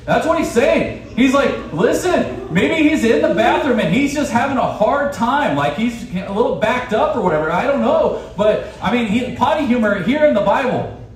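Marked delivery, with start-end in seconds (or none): 1.7-8.2 teasing jab, pitched higher; poking fun. Retold or imitated. Elijah poking fun at Baal's prophets, teasing. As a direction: needle them with a grin. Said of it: "he's poking fun at these people".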